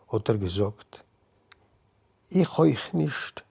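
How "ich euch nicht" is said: higher, slow, stress on Ich; woman's slow Ich euch nicht; woman saying. A narrator's reading. The woman echoes the rabbi, higher and slow. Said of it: "hat die Idene noch gesagt".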